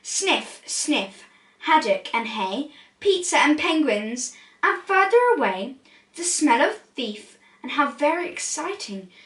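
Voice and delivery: lively storybook read-aloud; animated rhyming picture-book narration; reading to children. A narrator's reading. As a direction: read it like bedtime story time.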